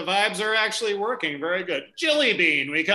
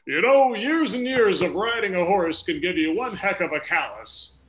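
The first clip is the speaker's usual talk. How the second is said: cowboy voice. Acted. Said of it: "the cowboy voice I'm doing there".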